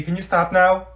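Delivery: ordinary talk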